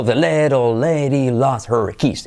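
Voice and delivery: "lost her" linked as "last-er", no H; dropped H. Shown as a demonstration. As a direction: swallow the H of "her" in "lost her keys". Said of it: "Y nos comemos la H".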